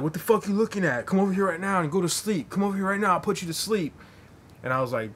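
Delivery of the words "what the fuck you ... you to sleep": high, loud mock challenge; imitating a drunk picking a fight, pitched high and loud; mock threat. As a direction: call him out for a fight, hammed up. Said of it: "And he's like".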